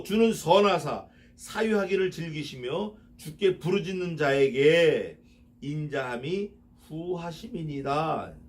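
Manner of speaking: slow, solemn recitation; measured psalm reading; slow verse reading. Acted. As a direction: read the verse deliberately.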